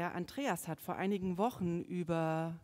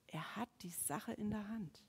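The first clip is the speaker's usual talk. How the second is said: hushed whisper; 9 dB quieter than usual. Acted. Preacher whispers God's control to congregation, hushed. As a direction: breathe it as a secret.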